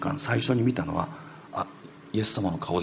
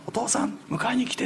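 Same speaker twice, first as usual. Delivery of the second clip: son's plea; 14 semitones higher than usual. Retold or imitated. Son's voice heard in hallucination.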